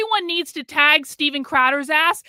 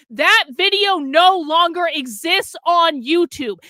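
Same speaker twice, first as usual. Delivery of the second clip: slow, loud hammering each word; angry emphatic shout; 3 semitones higher, 5 dB louder than usual. Real, not acted. Streamer insisting the original video is gone, angry slow shout. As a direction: drive each word home in anger. Ranting about stolen footage.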